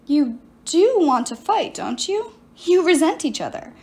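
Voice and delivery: lightly voiced sorceress, self-pitying; a hint of a wronged enchantress pleading her case; sorceress Medea. Medea explains herself to Piper, lightly voiced silky sorceress. Medea goads them to fight.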